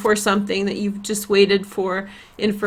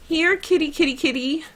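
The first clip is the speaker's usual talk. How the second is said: sing-song kitty call, pitched up; witchy cat call; 5 semitones higher, 3 dB quieter than usual. Pretend. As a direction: coax the cat like a cooing witch. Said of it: "I don't wanna sound like a witch".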